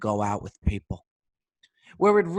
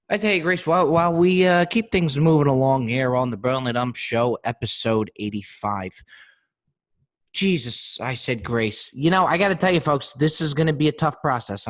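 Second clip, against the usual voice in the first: louder, raised show host energy; 6 dB louder than usual. Real, not acted. Host pressing on with the show while mourning, louder. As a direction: push it out like a show opener. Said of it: "I feel like I'm mourning right now".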